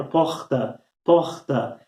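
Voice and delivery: "Porta" with the R pulled back in the throat; throaty R. Shown as a demonstration. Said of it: "esse R mais lá na garganta". ("porta" com R na garganta)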